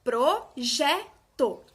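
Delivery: projeto broken into pro, je, to; slow syllable-by-syllable projeto, middle one emphasised; syllables apart, JE stressed. Shown as a demonstration. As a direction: say projeto slowly with pauses, strongest on JE. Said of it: "A sílaba que eu falo com mais intensidade".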